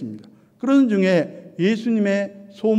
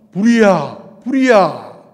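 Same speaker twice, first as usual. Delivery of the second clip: louder cry of fire; demonstrated shout, raised over usual talk; shouting alarm; 5 dB louder, slower than usual. Shown as a demonstration. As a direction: call out the alarm with force. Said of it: "소리 지릅니다".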